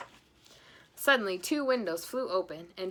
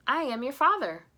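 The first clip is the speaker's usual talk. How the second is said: put-on higher, louder offended old man; indignant grandpa; 6 semitones higher, 8 dB louder than usual. Grandpa scolding his son, indignant. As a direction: set him straight, affronted.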